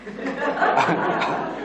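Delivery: high breathless laugh; real unvoiced laugh; burst of laughter. Real, not acted. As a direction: laugh helplessly at the memory. Laughing at own story.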